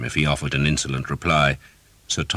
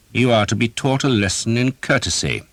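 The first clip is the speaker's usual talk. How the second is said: higher, mocking threat; menacing knight; 7 semitones higher, 4 dB louder than usual. A narrator's reading. Knight threatening the beaten archer, mocking menace. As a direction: lecture him as you hurt him. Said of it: "he told Thomas".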